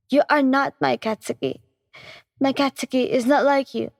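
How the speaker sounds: shouted. Acted. Girlfriend finally stands up to Katsuki, a mild shout. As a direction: Yan half-heartedly raises her voice. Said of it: "and shouted".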